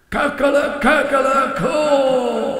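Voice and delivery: high, ringing cockerel crow; loud crow. A narrator's reading. Young cockerel wakes the farm with a loud high crow. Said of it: "let the air resound with a loud, magnificent cry".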